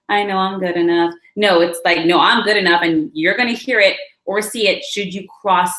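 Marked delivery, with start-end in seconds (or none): 2.0-2.8 firm, voiced self-assurance; spoken-out assertion. Shown as a demonstration. Standing in your power and saying it, firm assertion. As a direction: assert it firmly, a bit louder. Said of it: "This is a communicative, action-oriented".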